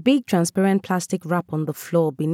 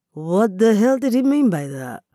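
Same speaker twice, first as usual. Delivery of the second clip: surprised outrage; 6 semitones higher, 4 dB louder than usual. A narrator's reading. Sudden realization of insult.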